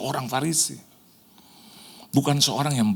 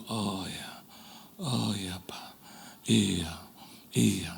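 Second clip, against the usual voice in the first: much softer, lower little yeses; just murmur along, don't interrupt; soft murmured agreement; 6 semitones lower, 11 dB quieter, much slower than usual. Retold or imitated. Young pastor quietly nodding along to the senior pastor's story.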